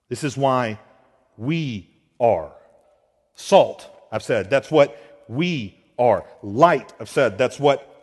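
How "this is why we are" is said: "we are" with "we" pressed down and held; preacher stresses who we are, leaning on we. Shown as a demonstration. Preacher to congregation, stressing we. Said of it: "placing an emphasis on we".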